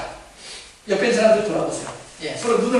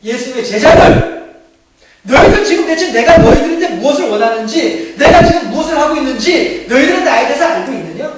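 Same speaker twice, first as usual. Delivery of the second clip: loud, raised-voice challenge to the disciples; 예수님; 5 semitones higher, 9 dB louder than usual. Acted. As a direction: confront your followers forcefully, pitched high. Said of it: "예수님께서 말씀을 하시는 거예요". (높고 큰 소리로 제자들을 다그치듯)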